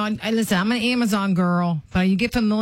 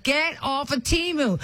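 higher, slow mock order to quit Temu; bossy wife telling him off, half joking; mock scolding command; 6 semitones higher, 3 dB quieter than usual. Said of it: "But now I'm scolding him".

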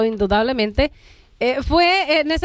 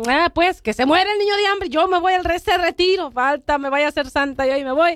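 angry; 3 semitones higher than usual. Retold or imitated. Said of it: "yo me quedé enojada".

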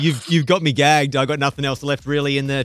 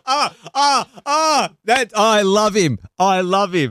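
laughing delight; 5 semitones higher, slower than usual. Real, not acted.

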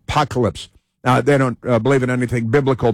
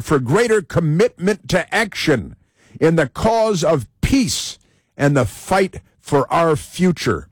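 slightly raised, measured mock declamation; mock manifesto; 4 semitones higher, slower than usual. Host mocking protester's statement, slow mock-solemn reading. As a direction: proclaim it in slow, separated phrases. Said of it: "But he says".

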